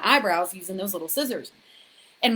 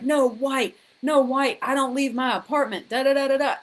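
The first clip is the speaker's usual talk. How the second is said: higher, louder, chanting "No white, no white"; manic refusal; 6 semitones higher, 4 dB louder than usual. Retold or imitated. Refusing her friends' tubing invite, chanting manically. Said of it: "And I was like".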